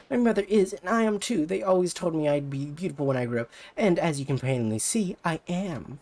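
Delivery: put-on high, pushy rival-girl voice; bratty rival idol. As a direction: talk down to her like a snobby idol. Ulala boasts and insults.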